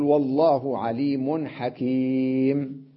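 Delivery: والله عليم حكيم with the final ميم of حكيم stopped dead on sukun; slow recitation, حكيم ending in a silent م, no tanween; pausal sukun stop. Shown as a demonstration. Teacher showing students how to stop with sukun, slow recitation. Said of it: "أقف عليها بالسكون".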